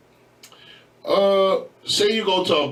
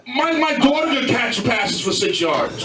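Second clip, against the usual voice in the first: laughing shout; 7 semitones higher, slower than usual. Real, not acted. Mocking argument, laughing shout.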